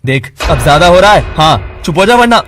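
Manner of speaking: furious warning. Acted. Keshav threatening his friend to shut up, furious shout. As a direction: bark the warning.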